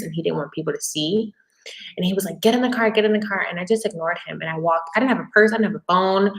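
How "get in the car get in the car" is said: mock yell. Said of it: "yelling outside".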